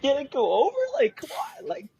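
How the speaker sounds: very high, anxious retold plea; tearful urging. Tearful viewer willing Joe to go over, high retold pleading. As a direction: urge him on in a high, pleading voice. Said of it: "trying to wipe my tears".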